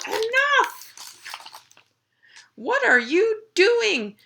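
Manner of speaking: high, loud outburst; acted fed-up parent shout; exasperated scolding. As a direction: burst out at the misbehaving pets, then drag out the question. Fed-up carer scolds the pets.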